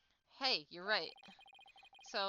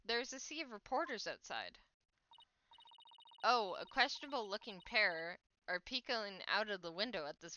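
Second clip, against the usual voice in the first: news report. Acted. TV reporter on live broadcast.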